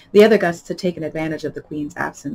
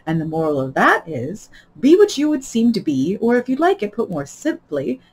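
lightly voiced Duchess, lilting; moralising Duchess; 3 semitones higher, 4 dB louder than usual. Duchess explaining a tangled moral, lightly pompous. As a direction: unwind the muddled moral with assurance.

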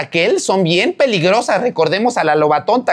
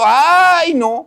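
excited cry; 8 semitones higher than usual. Real, not acted. Excited exclamation.

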